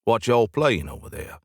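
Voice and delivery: a hint of a Southern American accent, casual. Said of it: "in a thick Southern American accent".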